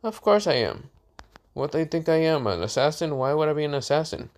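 acted mock-innocent denial; defensive denial. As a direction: brush off the accusation, pitch jumping up. Boy denies being an assassin.

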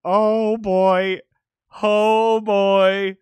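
loud, stretched-out mock dread; imitated dread. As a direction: re-enact your own nerves with long, held vowels. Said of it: "I straight up was just like".

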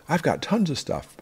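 lightly voiced overconfident hoarder, slowed down; smug prepper.

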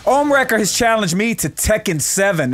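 lightly hammed-up fight announcer; playful showman's introduction; mock announcer. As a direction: hype up the crowd like a ring announcer. Hyping up the match like announcer.

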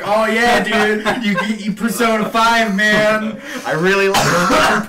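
high-pitched parody of a raving fan; mock gushing. Gamer mocking fans who rave around town, mock gushing. Mocks how he'd gush about Persona.

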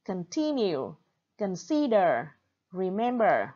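con-TIN-ue, con-SID-er, re-MEM-ber; second-syllable stress. Shown as a demonstration. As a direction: stress the middle syllable of continue, consider, remember. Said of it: "have stress on the second syllable". (nhấn âm tiết thứ hai: continue, consider, remember)

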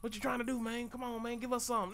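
high needling bat voice; nosy bat voice. Retold or imitated. Bats prying into the player's business in high voices. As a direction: pester them like an annoying bat. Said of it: "these bats like".

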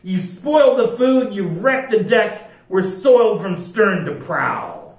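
high, scolding storybook captain; angry order. A narrator's reading. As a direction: order sternly, drawing out the first words. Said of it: "he ordered".

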